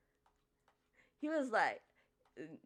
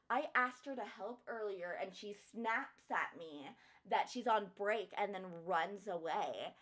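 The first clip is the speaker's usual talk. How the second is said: whiny customer. Retold or imitated. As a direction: whine like an entitled customer. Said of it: "She was like".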